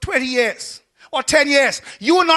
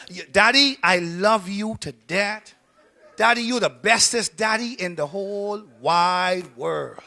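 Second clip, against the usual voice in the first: put-on adoring child; 5 semitones lower, 4 dB quieter than usual. Kid telling daddy of love, imitated tenderly. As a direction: lightly play a child doting on daddy.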